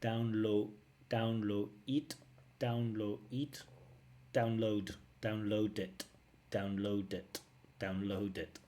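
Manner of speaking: repeated "download it" with "d" swapped for "t" at the start; imitating her download. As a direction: mimic the dropped-d "download". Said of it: "using the to replace the".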